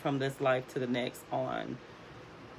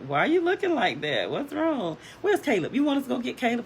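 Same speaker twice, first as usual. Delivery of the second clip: put-on high, insistent kid questions; rising, urgent child voice; questioning kids, imitated; 10 semitones higher, 3 dB louder, faster than usual. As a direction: imitate puzzled children, pitched up. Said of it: "And they were like".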